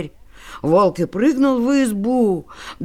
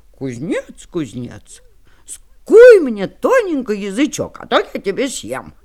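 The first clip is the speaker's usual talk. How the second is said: threatening wolf; 6 dB louder than usual. Acted.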